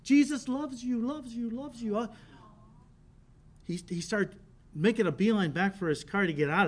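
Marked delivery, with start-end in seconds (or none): 0.0-2.0 echo. Retold or imitated. Preacher imitating the canyon echo, fading away. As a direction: let the words die away like a canyon echo. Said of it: "so it's echoing".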